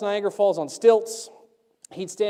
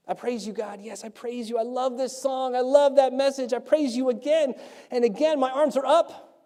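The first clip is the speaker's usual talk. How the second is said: mock fervent worshipper; 5 semitones higher than usual. Acting out eager worshipper.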